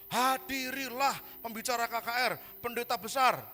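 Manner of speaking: slow, grand announcer read of the poster; mock announcement. Preacher parodies a church event advert, slow and grand. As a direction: boom it out like a revival advert.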